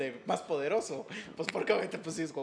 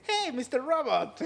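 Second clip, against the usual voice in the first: English dub version; 9 semitones higher, 4 dB louder, slower than usual. Retold or imitated. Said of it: "le hace".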